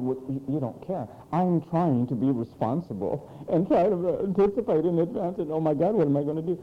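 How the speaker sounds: mumbled grievance; lightly voiced huffy youngster; mock upset. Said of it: "you're mad".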